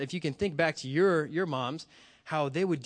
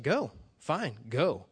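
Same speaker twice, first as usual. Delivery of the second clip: unbothered mom, voice settling lower; super calm; 3 semitones lower, slower than usual. Retold or imitated. Mom calmly telling her runaway son to go, super calm. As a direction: calmly let him go, no fuss. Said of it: "my mom was super calm".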